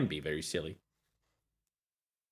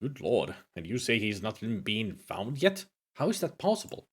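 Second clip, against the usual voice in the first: put-on Scottish accent; 2 semitones lower, 4 dB quieter than usual. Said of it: "I'm gonna keep them Scottish".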